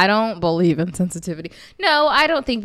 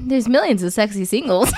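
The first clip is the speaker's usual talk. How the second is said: infomercial voice. Retold or imitated. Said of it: "ads going through my head".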